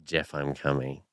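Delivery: lightly voiced Ayoade line; Richard Ayoade impression. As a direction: say it low, barely changing your own voice. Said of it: "do sound like".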